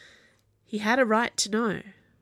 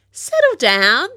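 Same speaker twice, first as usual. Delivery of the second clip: slow, loud, higher shouted reply; yelling back; 8 semitones higher, 11 dB louder, slower than usual. A narrator's reading. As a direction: yell it back, drawn out. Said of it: "she yelled back".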